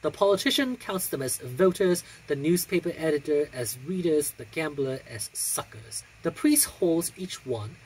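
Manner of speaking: measured, expressive recital of verse; poetry reading. Acted. Reading poems to her viewers in a recital voice. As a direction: read each proverb like a storyteller. Reads poem aloud after vlog chat.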